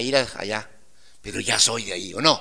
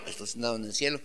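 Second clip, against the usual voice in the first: quiet, lowered repeat; hushed preacher's restatement; soft echo; 2 semitones lower, 6 dB quieter, much faster than usual. Shown as a demonstration. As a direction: echo it back gently to yourself. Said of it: "que estoy sentado en el cielo".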